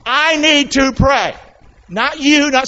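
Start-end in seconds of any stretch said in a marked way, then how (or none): 0.1-1.3 emphatic declaration. Shown as a demonstration. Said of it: "Come on".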